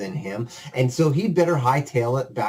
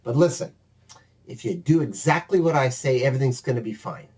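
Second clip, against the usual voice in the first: scolding; faster than usual. Acted. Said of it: "Una's just giving him the gears".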